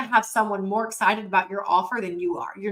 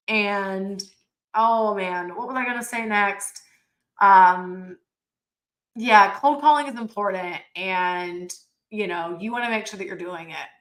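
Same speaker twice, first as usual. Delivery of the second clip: exaggerated listless delivery with long pauses; hammed-up boredom, stalling between phrases; bored, unenthused demo. Shown as a demonstration. Trainer showing webinar listeners a bad call tone, exaggerated boredom. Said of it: "exaggerated, but you can tell the difference in my tone".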